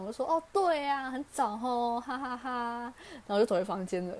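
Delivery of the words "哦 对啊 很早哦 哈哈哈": higher, bright forced-cheerful reply ending in a laugh; cheerful comeback. Retold or imitated. Daughter refusing to lose to dad, mock cheerful higher reply with a laugh. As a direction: answer with a defiant sunny grin. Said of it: "我就给他一个很开朗的笑容".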